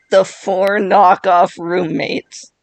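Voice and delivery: slow, laughing as it starts. Real, not acted. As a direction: chuckle into the words slowly. Laughs repeating the joke.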